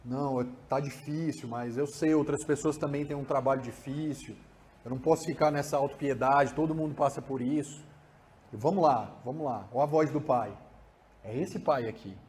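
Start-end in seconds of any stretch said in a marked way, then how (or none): 0.0-9.7 lower, softer self-encouragement; adult calming himself through a hard time; supportive inner voice. Shown as a demonstration. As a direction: talk yourself through it gently. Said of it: "vai sair também na voz de".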